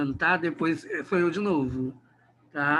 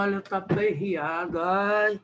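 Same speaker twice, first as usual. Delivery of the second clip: put-on Bahian accent. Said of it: "E o baiano fala".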